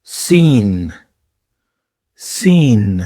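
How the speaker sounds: سین with a crisp s, drawn out; a clean hissed سین; Arabic sin demo. Shown as a demonstration. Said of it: "اس کے بعد ہے سین".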